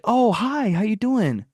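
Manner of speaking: put-on high, sugary old lady greeting; sweet old lady. Old lady canvasser greets him at the door, high and sweet. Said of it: "So she was like".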